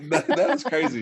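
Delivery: real amused disbelief; laughing. Real, not acted. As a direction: laugh as you say it. Laughing over how 2020 was.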